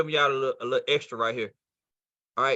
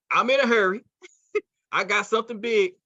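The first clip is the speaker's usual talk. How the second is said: higher-pitched, hurried announcement; in a hurry; 5 semitones higher than usual. Acted. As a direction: toss it out like someone with big news. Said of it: "Guess what they're saying?".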